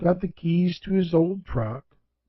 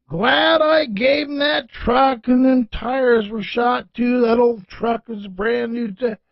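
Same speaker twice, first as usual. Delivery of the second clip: put-on slow, higher folksy old man; lightly voiced old man chatting contentedly; old George; 4 semitones higher than usual. Old George talks to the stranger, slow and pleased.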